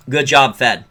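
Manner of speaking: dry mock praise; sarcastic. Real, not acted. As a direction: say it deadpan, meaning the opposite. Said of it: "I'm being sarcastic".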